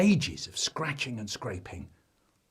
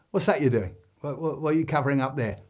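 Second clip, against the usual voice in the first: cheery dad; 2 semitones higher, 4 dB louder, faster than usual. Acted. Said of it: "Still cheery".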